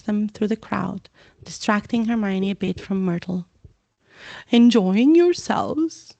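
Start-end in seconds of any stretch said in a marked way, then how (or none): 4.5-6.1 slow, courtly ghost; genteel host voice; Nearly Headless Nick. Acted. Nick greeting guests, slow courtly.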